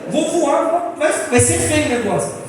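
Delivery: retold panic, high and insistent; quase chorando. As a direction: act out a near-tearful fright. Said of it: "quase chorando". (desespero encenado, voz mais aguda)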